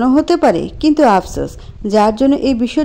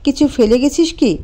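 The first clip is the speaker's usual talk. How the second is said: calm. Acted. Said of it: "শান্ত গলায় বলল".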